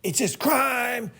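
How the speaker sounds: high, slow, dismissive mock; mock cynic. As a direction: drag it out like a bored cynic. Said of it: "goes to Chicago and says".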